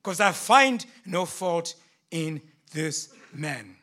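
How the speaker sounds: loud, exasperated outburst; losing patience. Acted. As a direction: throw the prisoner back at them, fed up. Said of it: "I lost all patience".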